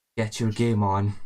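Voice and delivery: deep, rough, low gravelly delivery. Describing a man tapping you on the head and giving his line; low gravelly voice. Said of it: "he says with a low gravelly voice".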